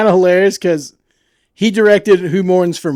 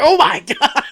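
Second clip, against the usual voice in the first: shocked; 8 semitones higher, slower than usual. Retold or imitated. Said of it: "I was like".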